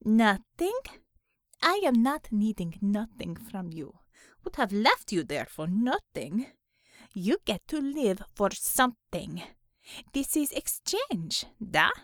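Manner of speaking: lightly voiced Russian-sounding interrogator; scornful bargaining with a captive; tough interrogator, scornful. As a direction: press the captive in broken English.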